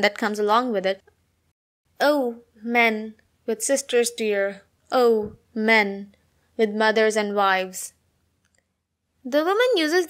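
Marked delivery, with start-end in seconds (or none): 2.0-7.9 slow, measured poem reading; poem recitation. Acted. Woman appealing to men in a poem, measured recitation. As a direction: read it as verse, pausing after each phrase.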